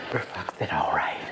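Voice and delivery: very low, hushed fox voice; gullible Brer Fox, agreeing. Acted. Brer Fox agreeing to the plan, low and hushed. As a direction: drop down low and soft to agree.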